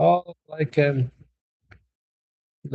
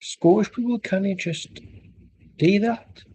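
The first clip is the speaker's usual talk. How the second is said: higher-pitched attempt at Scottish; Scottish accent; 5 semitones higher than usual. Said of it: "I can do Scottish and Irish".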